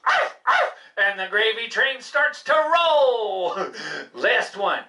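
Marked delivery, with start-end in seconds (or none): 0.1-0.7 high eager barks; hungry barking. Acted. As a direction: bark for your dinner. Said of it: "I say arf when I want to get fed".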